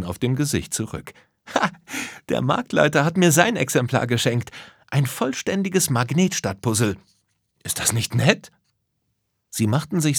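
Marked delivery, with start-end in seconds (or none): 1.5-8.5 lightly raised, satisfied character voice; Lisa, pleased. Acted. Lisa returns with the puzzle for her friends, pleased. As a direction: proudly show off the prize, a little higher.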